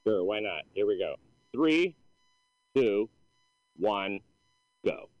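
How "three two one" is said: slow, punchy countdown. Acted. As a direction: count it down, each number landing. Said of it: "give us that celebrity comedian countdown".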